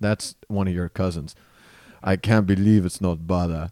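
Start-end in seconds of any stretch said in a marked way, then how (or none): 2.0-3.7 put-on British-tinged accented delivery. Answering a request to do Fabio: Fabio impression. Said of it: "So can you do Fabio?".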